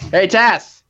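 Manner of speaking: calling out. Real, not acted. Calling to wife across house.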